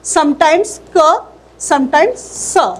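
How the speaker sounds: C sounded as क and स; letter sounds. Shown as a demonstration. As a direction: sound out क then स slowly. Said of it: "C का".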